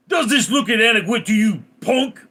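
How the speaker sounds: plant voice. Retold or imitated. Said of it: "had the voice of a African American".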